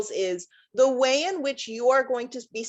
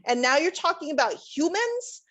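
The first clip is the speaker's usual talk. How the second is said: higher-pitched doubting voice, lifting into a question; skeptical questioning; 4 semitones higher than usual. Retold or imitated. Adviser voicing people who don't see lab skills as transferable, skeptical. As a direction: voice the doubters, unconvinced by the link. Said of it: "'cause they're thinking".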